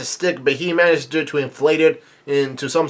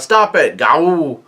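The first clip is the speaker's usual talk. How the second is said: Pacom; much slower than usual. Retold or imitated. Pacom protesting to his captors, mock yell. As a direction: act out a protest ending in a howl. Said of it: "Pacom yells out".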